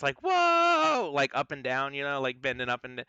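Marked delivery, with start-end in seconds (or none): 0.2-1.1 high squealing gnome whoop; a high teasing whoop as they dance; mocking gnome. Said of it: "making it into a dance".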